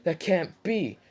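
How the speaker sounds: high, loud and slow, an imitated cry of disbelief; shocked disbelief. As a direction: stretch it out like you can't believe it. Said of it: "And Menma was like".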